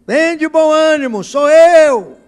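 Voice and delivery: big projected reassurance, preacher voicing Jesus; loud calling out. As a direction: call out to frightened people across the water. Voices Jesus calling to frightened disciples.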